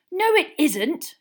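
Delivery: slow, high angry shout. A narrator's reading. Boy contradicting his friend mid-row, shouting. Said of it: "shouted Ron".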